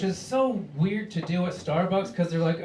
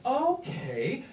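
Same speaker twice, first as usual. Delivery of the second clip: calm reassurance; 4 dB quieter than usual. Retold or imitated. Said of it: "she's like".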